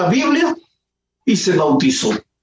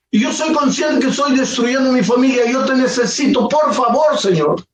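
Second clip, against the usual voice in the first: a lightly voiced, raised desperate plea; tearful pleading prayer; 4 semitones higher than usual. Broken man prays in an empty church, mild tearful pleading. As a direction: beg God higher and more urgently, a touch of tears. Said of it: "llorando y dijo".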